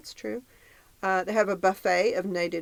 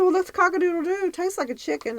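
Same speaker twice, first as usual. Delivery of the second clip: quoting Joan; 12 semitones higher, 4 dB louder than usual. Retold or imitated. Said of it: "She said".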